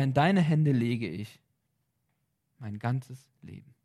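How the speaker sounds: spoken prayer, devoted and sincere; earnest prayer. Acted. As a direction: pray it aloud as an example. Sample everyday prayers. (ernstes, hingebungsvolles Gebet)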